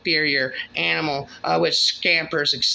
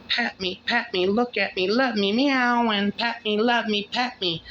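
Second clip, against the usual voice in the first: higher, begging cat voice; a lightly voiced needy cat, higher; meowing cat; 6 semitones higher than usual. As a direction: plead like a cat twining round ankles.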